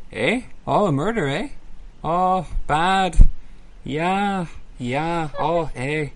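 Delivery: a hint of Minnesota-nice Fargo accent; mock Fargo calm. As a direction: imitate the calm Fargo folks shrugging off a murder. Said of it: "they just keep saying".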